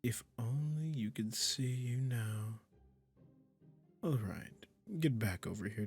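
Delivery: slow, drawn-out coaxing with lingering pauses; lightly hammed-up sweet, condescending captor; doting, possessive magician. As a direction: coo smugly to your new pet kitty. Magician soothing listener turned cat.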